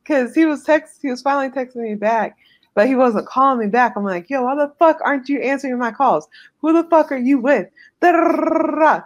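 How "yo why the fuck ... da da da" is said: mildly heated, rattled-off complaint; irritated questions rising into a mock rant; pissed-off rant. Girlfriend retelling her rant about unanswered calls, pissed off. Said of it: "it pissed me off".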